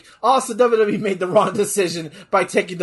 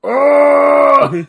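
sudden loud high "oh"; excited shout; 7 semitones higher, 9 dB louder than usual. Real, not acted. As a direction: burst out in excitement. Reacting to wrestling finish.

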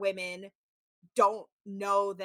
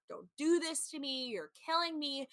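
higher, softer imitated plea; begging; 4 semitones higher, 6 dB quieter than usual. Imitating his talking head after her answer, begging. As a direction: plead lightly, as if retelling his pleas. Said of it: "and he's begging".

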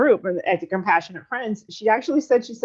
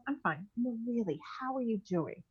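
soft, deflecting I'm fine; answering her cousin's repeated question with a soft, flat reply; flat brush-off; 12 dB quieter than usual. Retold or imitated. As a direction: push her concern away quietly. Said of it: "I'm like".

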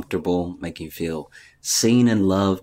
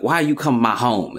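annoyed mob doctor; 4 semitones higher than usual. Retold or imitated. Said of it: "the mob doctor always has the same speech".

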